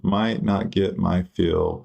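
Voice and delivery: slow, musing repeat; slow drawn-out repeat. Real, not acted. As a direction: stretch the words out to yourself. Repeats the line to himself.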